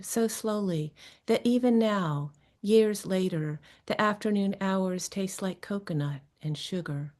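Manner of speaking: measured, phrase-by-phrase poem recital; literary reading with deliberate pauses; poetry reading. Acted. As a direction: read the poem aloud, letting each phrase fall at its end. Reads her poem aloud.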